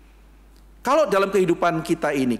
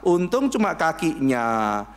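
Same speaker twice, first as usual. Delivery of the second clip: slow relieved; slower than usual. Retold or imitated. Quoting a relieved lucky person.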